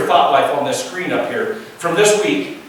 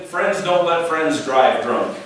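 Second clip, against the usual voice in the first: slow slogan; slower than usual. Shown as a demonstration. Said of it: "the old slogan".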